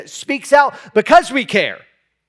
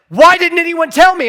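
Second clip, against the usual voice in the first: retold anguished cry; 9 semitones higher, 7 dB louder than usual. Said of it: "crying out, says".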